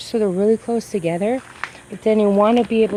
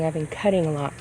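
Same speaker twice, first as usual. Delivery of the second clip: crunching; 3 semitones lower than usual. Real, not acted. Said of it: "pardon the crunching".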